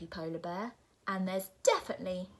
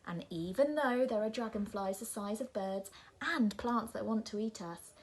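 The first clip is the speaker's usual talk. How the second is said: shouting; 6 dB louder than usual. Acted. Nora shouting at the polar bear, building. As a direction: rant louder and louder at the bear. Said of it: "shouts Nora".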